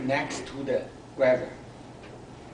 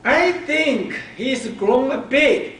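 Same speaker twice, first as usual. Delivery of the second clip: put-on little girl's voice; 9 semitones higher, 6 dB louder than usual. Girl tells mom at breakfast.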